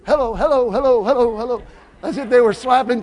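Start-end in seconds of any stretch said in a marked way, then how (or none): 0.1-1.6 mock greeter. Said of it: "They just walk through like this".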